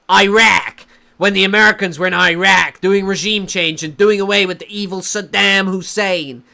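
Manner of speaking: lightly hammed-up American voice; mock American accent. Sending up talk of regime change, mock American accent. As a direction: parody an American war booster's accent. Mocking American war rhetoric.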